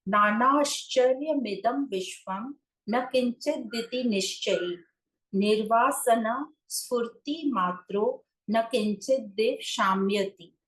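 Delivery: slow, measured scripture recitation; deliberate reading of a sacred verse; Sanskrit verse recitation. Real, not acted. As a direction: recite the sutra slowly, drawing out the syllables. Recites Sanskrit verse before translating it.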